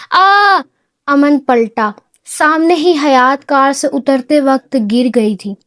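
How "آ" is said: sharp scream of pain. A narrator's reading. Woman falling from a car, crying out in pain. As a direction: yelp out as if you just fell. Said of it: "ایک مخصوص چیخ".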